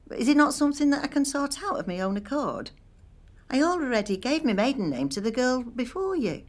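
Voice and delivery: an offended woman stating her identity; indignant. Real, not acted. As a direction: put them firmly in their place. Indignant at the security check.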